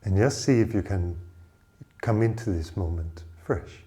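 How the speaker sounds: measured meditation guiding with long pauses; unhurried meditation leader, phrase by phrase; guided meditation. Acted. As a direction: guide listeners inward, leaving space between phrases. Leads a meditation.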